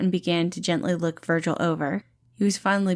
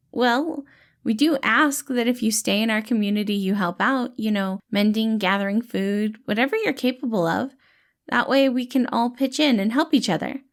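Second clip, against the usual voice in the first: gentle dad-like rescuer, pitched up and bright; cheerful caretaker Patton; 4 semitones higher than usual. Acted. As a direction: play the kind, upbeat helper calming a scared kid. Patton explains helping out.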